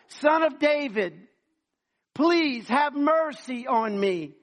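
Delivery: slow, loud drawn-out plea. Acted. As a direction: stretch each word, begging harder. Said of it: "the louder he got".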